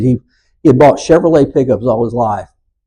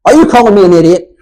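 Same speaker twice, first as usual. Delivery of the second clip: higher, louder, fast indignant retort; not quiet; 7 semitones higher, 5 dB louder, faster than usual. Retold or imitated. Glenn retorting to the Ford salesman, loud and offended. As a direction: fire it back at the salesman, offended. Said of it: "not in a very quiet voice".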